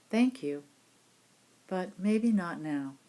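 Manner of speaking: gentle, polite putting-off of the mind. Shown as a demonstration. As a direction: kindly turn a thought away, lifted then slowing. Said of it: "in a gentle way".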